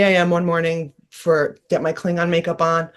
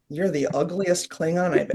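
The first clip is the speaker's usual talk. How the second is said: dry deadpan; 7 dB quieter than usual. Retold or imitated. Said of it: "very dry sense of humor".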